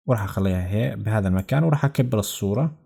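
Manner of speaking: ordinary talk, nothing marked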